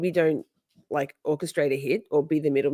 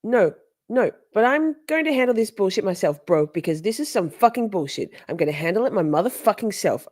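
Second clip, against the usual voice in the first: hammed-up angry caller, higher; mocking Katie; 5 semitones higher than usual. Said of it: "She says".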